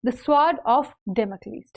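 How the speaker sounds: very slow, word by word; The sword of Damocles read out slowly, each word separate; slow dictation. Shown as a demonstration. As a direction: spell it out slowly for students. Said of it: "teaching the idiom slowly".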